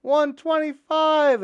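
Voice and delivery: high, loud, slow shouted number; old prisoner calling out a joke number; yelled number. Retold or imitated. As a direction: draw it out like a big announcement. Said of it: "he yells".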